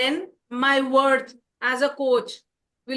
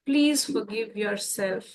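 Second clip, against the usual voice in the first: gentle plea; 3 semitones lower, much slower than usual. Shown as a demonstration. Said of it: "There are days when you don't exercise".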